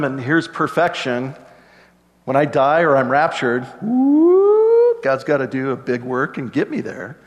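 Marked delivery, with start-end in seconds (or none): 3.8-5.0 very high swooping whoop; a sudden high gleeful lift. Acted. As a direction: zip upward like being lifted away. Rapture swept up to perfection.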